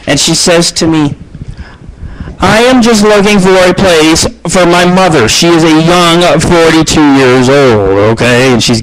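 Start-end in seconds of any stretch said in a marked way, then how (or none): 2.4-8.5 imitating the caller. Voicing Filipina caller.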